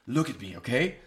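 lightly imitated Eastern European doctor; a hint of the European doctor's accent; butchered European accent. Doctor getting his patient's attention, mild European accent. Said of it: "sorry for butchering his accent".

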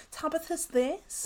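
put-on old lady voice. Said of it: "I'm doing her old lady voice".

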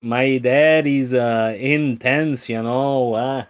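loud, hammed-up Midwestern accent; booming mock-Minnesotan; horrible Midwest accent. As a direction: keep up the bad Minnesota dad. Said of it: "your horrible Midwest accent".

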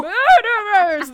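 long, loud, high-pitched roar; beast's roar. A narrator's reading. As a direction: roar the word, stretching it out. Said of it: "The beast roared again".

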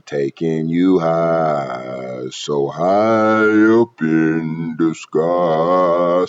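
slow sung demon voice. Shown as a demonstration. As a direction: sing it like a demon, slowly. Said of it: "that's the demon voice".

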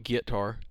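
"guitar" as GIT-tar; imitating mom's git-tar for guitar; mom's pronunciation. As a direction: say guitar like git-tar, with a hard short first syllable. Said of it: "My mom used to call it".

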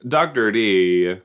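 slow, drawn-out student chant; playful singsong calling of a teacher; excited students. Acted. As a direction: stretch the nickname out fondly. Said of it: "And they're like".

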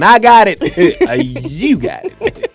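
high, loud, drawn-out promise; joking promise voice. Pretend. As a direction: tease like you owe them. Joking about owing somebody.

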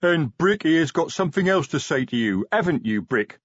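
high, coaxing troll; troll sergeant prompting the youngster, motherly; maternal. Acted. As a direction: coax him like a mother. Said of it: "said the maternal Detritus".

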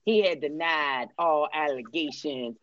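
lightly voiced T.I., measured and formal statement; a hint of T.I. giving an official denial; T.I. impression. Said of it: "That's my T I voice".

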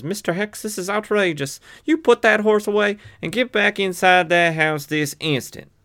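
high, outraged Western woman scolding; caricatured Western accent. Acted. Woman ordering Mister Hex back into the house, caricatured Western accent. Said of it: "that's a mean caricature".

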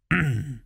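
a small nervous throat clear. A narrator's reading. Servant clears his throat before the king. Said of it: "said Dill".

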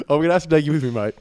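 imitated Australian accent; mock Australian athlete impression; Steven Adams. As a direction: put on an amateur Aussie voice. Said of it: "rating my Australian accent".

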